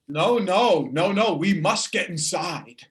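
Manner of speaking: loud, urgent protest; urgent insistence. Acted. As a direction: insist firmly, starting loud. Character insists they go inside.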